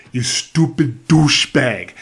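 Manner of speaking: put-on slow Jersey accent insult. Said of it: "with the Jersey accent".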